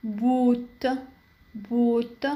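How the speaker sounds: long drawn "oo" in "بوت"; long vowel. Shown as a demonstration. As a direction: say "بوت" with a long, held German o. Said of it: "تنطق طويلة". ("بوت" بحرف o طويل)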